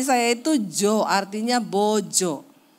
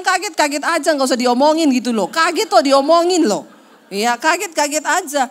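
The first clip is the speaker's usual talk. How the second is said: exasperated retort; 4 semitones higher, 6 dB louder than usual. Retold or imitated. Wife snapping back at husband.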